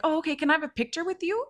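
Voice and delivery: high-pitched mimicked request for a favour; pleading stranger. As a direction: imitate an overly casual man asking, pitched high. Retold stranger asks for photo.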